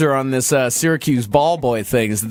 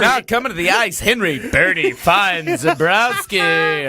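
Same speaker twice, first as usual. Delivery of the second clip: announcer. Pretend.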